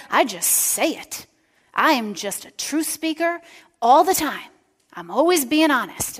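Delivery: brash boasting. Retold or imitated. Pastor imitating a blunt friend boasting, loud and high. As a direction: puff up like you say everything. Retelling a blunt self-described truth speaker.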